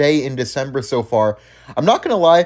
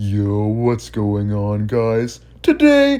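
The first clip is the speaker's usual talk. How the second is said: very slow, drawn out, fake deep voice; 5 semitones lower than usual. Mocking how someone's videos open: Ian impression, fake deep voice. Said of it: "I can do a way better impression of Ian".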